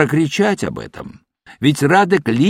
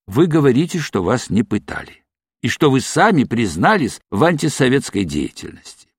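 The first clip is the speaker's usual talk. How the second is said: ordinary delivery, nothing marked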